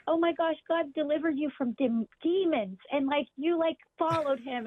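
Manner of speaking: imitating breathless fan awe, lightly; retold gushing. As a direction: gush to a beloved saint. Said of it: "gushing. I'm like".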